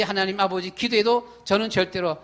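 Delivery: ordinary delivery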